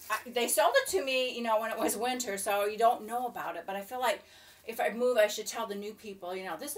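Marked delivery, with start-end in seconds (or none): none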